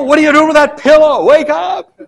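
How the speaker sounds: loud, high, fast panicked cry; a disciple shouting at sleeping Jesus over the storm; frantic shout. Acted. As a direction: yell to wake a sleeper in a storm.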